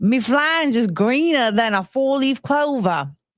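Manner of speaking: clumsy, bad, fake put-on Australian accent. Trying out an accent, then apologizing for it, in a bad Australian accent. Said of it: "I haven't been practicing my Australian accent".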